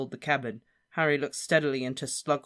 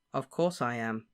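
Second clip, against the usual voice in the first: calm; 2 semitones lower than usual. Acted. Harry calmly confirming he is the Chosen One. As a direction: state it calmly. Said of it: "said Harry calmly".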